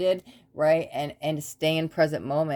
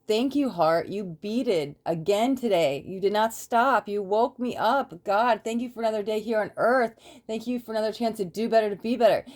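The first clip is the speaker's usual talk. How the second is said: higher, heartfelt thank-you; grateful prayer; 4 semitones higher than usual. Pretend.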